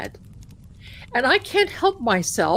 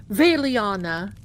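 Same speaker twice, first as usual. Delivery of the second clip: intense partner; slower than usual. Retold or imitated. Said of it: "he's very intense".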